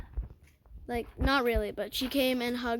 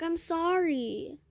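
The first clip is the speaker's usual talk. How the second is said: drawn-out fake sorry; 4 semitones higher, much slower than usual. Friend's half-hearted apology.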